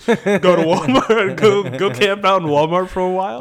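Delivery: laughing while joking; laughing through the words. Real, not acted.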